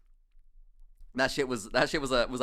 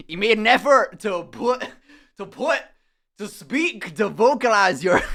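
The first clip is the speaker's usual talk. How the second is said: a louder try at a Somerset accent that drifts Scottish; attempted Somerset accent; 3 semitones higher, 7 dB louder than usual. Shown as a demonstration. Describing his dad's speech, trying a Somerset accent. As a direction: put on a West Country voice and slip into Scottish. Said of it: "I'm going Scottish now".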